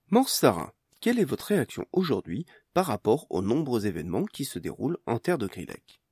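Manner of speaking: news anchor. Acted. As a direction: announce it like the morning news.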